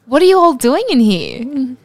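loud, high challenging question; suspicious official. Acted. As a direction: demand it like an official. Intruder questioning them.

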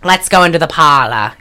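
put-on Connecticut Mid-Atlantic accent; old movie-star Mid-Atlantic, r's dropped; Katharine Hepburn. Film star inviting into the parlor, Mid-Atlantic accent. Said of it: "a very Connecticut voice".

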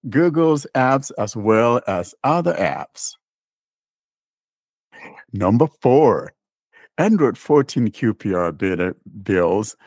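measured read-out of written notes; reading aloud. Real, not acted. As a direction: read the notice out deliberately, phrase by phrase. Reads release notes aloud.

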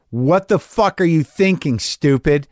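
scolding yourself sharply; harsh self-talk. Shown as a demonstration. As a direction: bark at yourself to stop. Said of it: "Yeah, try that one".

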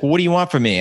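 half-hearted indignant yell at his brother; exasperated mock shout; retold yelling. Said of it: "I started yelling at him".

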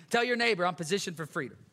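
rally the room to echo it; call to congregation. Real, not acted. Preacher calling the church to repeat the line.

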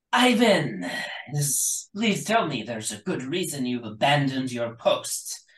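harsh-looking general chewing out her soldier; stern general. Acted. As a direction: scold a failing soldier from high above. General questions Ivan.

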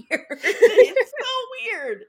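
drawn out, laughing through it; high and loud, cracking up. Real, not acted. Laughing at the cringey bedtime cameo scene, high and loud.

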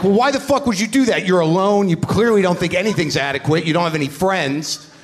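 retold angry tirade. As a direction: tear into the lonely heckler from the stage. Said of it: "I'm like".

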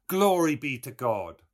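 put-on high, loud, pious old woman; old milkwoman. A narrator's reading. Old woman at Stephen's elbow praising the morning, piously. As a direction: praise God as a lightly voiced old countrywoman. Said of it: "An old woman came forward".

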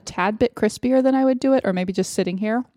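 talking through a mouthful of cookie; chewing while talking. Real, not acted. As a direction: chew while you speak. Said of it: "excuse my chewing".

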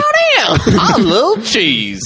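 put-on goofy high Wisconsin accent, loud; cartoonish high Midwestern yokel. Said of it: "Can you do a Wisconsin accent?".

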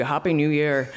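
lightly imitated non-Irish accent; a hint of a foreign accent on the greeting; imagined foreign accent. Woman imagining the tall stranger's reply, foreign accent. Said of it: "expecting him to kind of be".

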